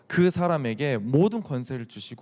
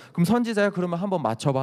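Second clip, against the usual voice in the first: high, taunting dare; acted jeer, pitched up; mocking; 5 semitones higher, faster than usual. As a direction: goad him with a sneering challenge. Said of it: "예수님은 막 조롱하기 시작하고".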